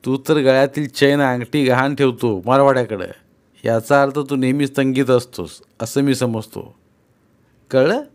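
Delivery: loud scolding. Acted. Sudama lectures Ghamandi.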